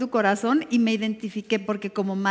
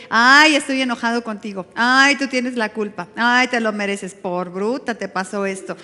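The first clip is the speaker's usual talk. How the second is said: mock accusing voice; 4 dB louder than usual. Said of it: "Él no te dice".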